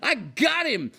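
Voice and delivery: high loud bragging cat; cat bragging to owner, high excited voice; proud cat voice. Retold or imitated. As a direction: brag like a cat who just scored.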